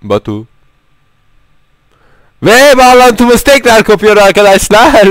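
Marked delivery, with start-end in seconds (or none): 2.4-5.1 high loud dramatic announcer; mock dramatic announcement. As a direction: overplay the bad news. Announcing lost connection.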